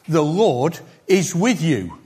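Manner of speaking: slow, deliberate, lean on with; slow emphasis. Shown as a demonstration. Preacher stressing what Gideon actually heard, slowed and weighted. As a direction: spell out The Lord is with you word by word. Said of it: "Gideon didn't hear".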